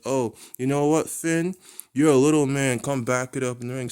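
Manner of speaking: loud taunting snarl at a rival; angry challenge. Retold or imitated. Roman taunts Finn to come to the ring: loud angry challenge. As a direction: belittle him, loudest on little man.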